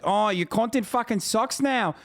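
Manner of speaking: high sneering parody of the fan; mocking imitation. Streamer mocks the basement fan's comment in a high sneer. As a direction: whine it back with scorn. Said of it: "who's literally like".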